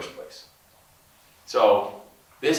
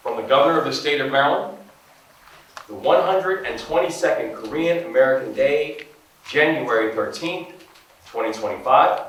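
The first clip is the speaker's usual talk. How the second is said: louder, higher, ceremonial reading voice; formal proclamation read; 4 semitones higher, 5 dB louder than usual. Acted. Governor reading the proclamation to the ambassador, ceremonial and loud. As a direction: read the proclamation like an official decree. Reads official proclamation aloud.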